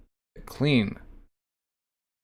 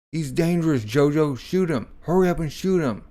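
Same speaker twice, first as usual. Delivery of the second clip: higher, pressing plea; urgent Speedwagon; 5 semitones higher than usual. Acted. Speedwagon begging Jojo to shoot Dio, higher and urgent. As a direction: push him to shoot now.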